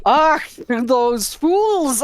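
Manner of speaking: slow, drawn-out attempt at a Scottish accent. Asked to do a Scottish accent, a slow hesitant Scottish voice. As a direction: stretch it out in a halting Scottish try. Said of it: "speaking in a Scottish accent".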